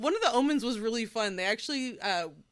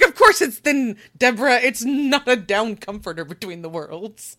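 exasperated; 11 dB louder than usual. Retold or imitated. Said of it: "I'm like".

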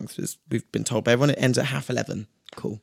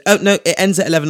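mock shout; 4 semitones higher, 4 dB louder, faster than usual. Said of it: "she just shouts and goes".

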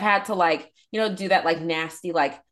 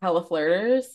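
mock sing-song warning. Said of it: "I was like".

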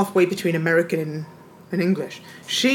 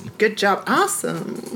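mock American. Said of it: "I say".

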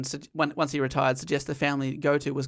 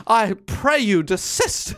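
put-on phony British accent; 3 semitones higher, 4 dB louder, slower than usual. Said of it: "As you're being shot".

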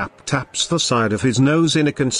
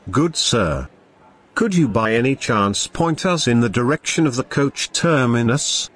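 Shakespearean voice. Acted. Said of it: "Summoning up his best Shakespearean voice".

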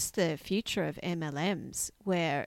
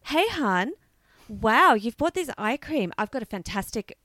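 put-on high, bubbly sales-girl gush; gushing, overly friendly saleswoman; mlm recruiter pitch; 4 semitones higher, 4 dB louder than usual. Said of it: "the woman behind the counter does not turn to you and say".

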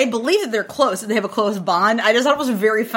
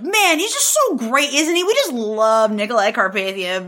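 gushing admirer. Retold or imitated. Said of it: "Chaim is just, like, really like".

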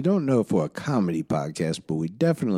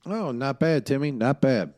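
put-on old southern gentleman; 7 semitones higher than usual. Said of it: "affectionately known as the Southern Gentleman".

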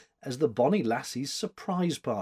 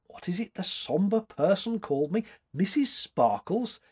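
amused questioning; 7 semitones higher than usual. A narrator's reading. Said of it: "I am incognita".

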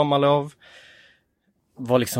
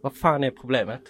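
retold father's scolding; 3 semitones higher than usual. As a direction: scold like an irritated dad at dawn. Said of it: "blev fly förbannad".

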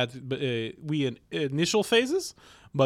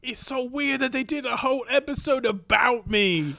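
put-on high voice; 10 semitones higher than usual. Responds as Monica, put-on voice.

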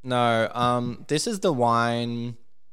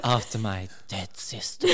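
mock sexy repeat. Mocking the sexy line, laughing.

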